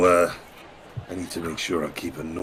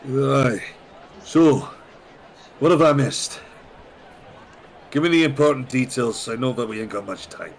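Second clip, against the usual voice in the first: raised, loud rowdy traveller voice; high loud adventurer; 5 semitones higher, 4 dB louder than usual. Acted. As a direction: bluster in as a rowdy newcomer. Character voice resumes.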